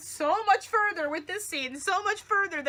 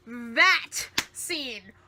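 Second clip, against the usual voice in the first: whisper; 5 semitones lower than usual. Real, not acted. Whispered awe.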